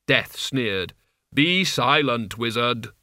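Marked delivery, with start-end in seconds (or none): 1.3-2.9 Death's voice. Acted. Death commands the wizard.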